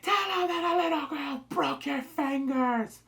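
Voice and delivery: a cult preacher taunting his injured man; menacing villain. Retold or imitated. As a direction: threaten with a twisted grin. David threatening after broken finger.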